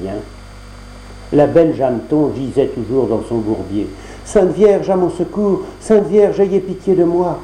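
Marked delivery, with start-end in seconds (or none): 4.2-7.4 plus aiguë, implorante; prière suppliante. Acted. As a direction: appelle à l'aide, désespérée. Jeanneton implore dans le bourbier. (Jeanneton prie la Vierge depuis le bourbier, suppliante et aiguë)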